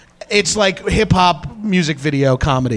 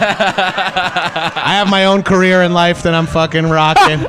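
wrestling promo. Pretend. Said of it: "I'm cutting, like, a wrestling promo right now".

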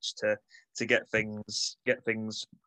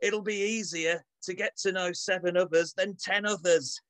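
mock team talk; 5 semitones higher than usual. Reading a halftime team talk.

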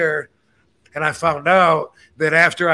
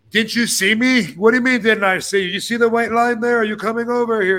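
higher, heated back-and-forth; two drivers snapping at each other; retold argument; 5 semitones higher than usual. Drivers arguing after the crash, heated and higher.

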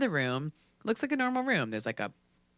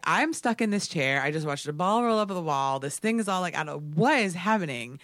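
freaked-out rant; 3 semitones higher, 4 dB louder than usual. Retold or imitated. Freaking out in the chair.

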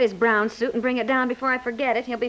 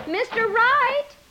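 calling out; 10 semitones higher, 3 dB louder than usual. Real, not acted. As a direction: stretch his name out to catch him. Housewife calls out to leaving milkman.

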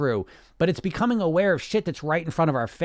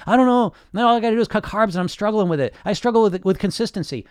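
higher, louder, fast complaining; mock whiny dieter; 5 semitones higher, 4 dB louder than usual. Imitating a struggling dieter for listeners, mock whiny complaint. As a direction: play the helpless dieter, a touch whiny. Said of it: "And you".

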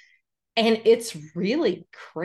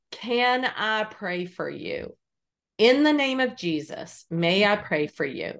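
gentle offer to pray. Retold or imitated. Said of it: "And so I said".

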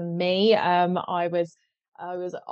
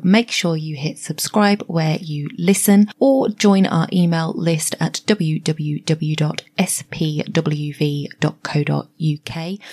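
bright, louder announcer read over music; podcast intro read; 2 semitones lower, 5 dB louder than usual. Acted. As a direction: sell the show like a radio promo.

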